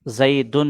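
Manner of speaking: زیدن with the -un ending sounded out, "zai-dun"; pronounced pesh. Shown as a demonstration. Teacher showing an audible case ending, زیدن as "zaidun". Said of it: "پیش میں ہم تلفظ کرتے ہیں".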